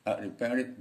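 "I repaired" with "have" swallowed; accepted reading variant. Shown as a demonstration. Teacher showing students a looser reading, word swallowed. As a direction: run "I" straight into "repaired", dropping "have". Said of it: "gitu boleh".

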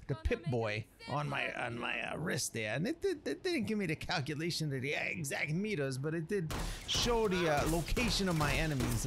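lightly put-on swaggering streetwise narrator; a hint of a cocky wasteland chef telling a legend; Ghost Chef voice. Explaining the legend of this guy, a lightly voiced cocky chef. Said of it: "I'm just basically doing it as his voice".

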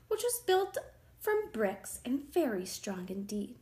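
usual speaking voice

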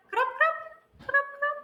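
high, quick "крап, крап"; light rain sounds. Shown as a demonstration. Teacher showing weak rain for children to name. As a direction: tap out a light drizzle. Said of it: "це слабкий дощ".

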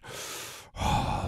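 raspy mask breath; Vader breathing. Pretend. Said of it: "do my Darth Vader impersonation".

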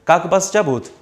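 very slow, word-by-word Russian; slow model reading. Shown as a demonstration. Teacher reads the dialogue slowly for students to repeat. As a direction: read each Russian word out slowly for the class. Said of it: "한번 읽어본 다음에".

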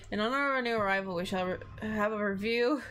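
attempted German accent, a little quick. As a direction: try a light German accent. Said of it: "It's just the accent's".

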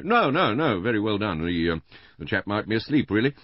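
high, loud, hesitant husband; Mister Bland, flustered. A narrator's reading. Husband shielding his wife from the inspector, flustered. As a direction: fluster and stumble over the excuses.

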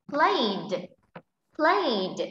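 "played" in one falling syllable, ending in d. Shown as a demonstration. Teacher shows class a similar word, "played" ending in d. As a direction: model "played" twice, releasing the final d. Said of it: "sẽ phát âm là d".

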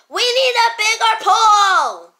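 full-force, high yell with a long last word. Acted. Friend crammed in a small pool, yelling. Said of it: "Stop yelling!".

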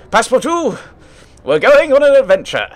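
high, loud, hammed-up excitement; excited announcement. Master bursts in to tell his new valet, excitedly. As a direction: burst in crowing with mock excitement.

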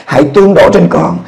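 high, pleading prayer; kneeling on the bed, begging for the Spirit; fervent prayer. Retold or imitated. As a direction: cry out to God for the outpouring. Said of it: "Tôi nói".

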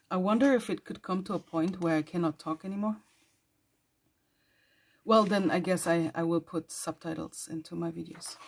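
ordinary talk, nothing marked

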